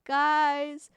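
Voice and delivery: high, mock-alarmed calling; urgent imitation breaking into a laugh at the end; Connie. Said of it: "Connie's just sitting there outside going".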